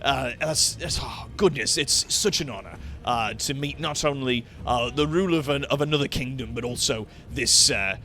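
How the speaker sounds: flustered, halting apology; awed, tongue-tied hesitations; stumbling over words. Acted. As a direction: fumble through it, breaking off and restarting. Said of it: "almost, like, stumbling over his words a little bit".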